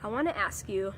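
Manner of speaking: stuffy nose from a cold; nasal, congested voice from a cold; nasally voice. Real, not acted. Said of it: "like, nasally voice".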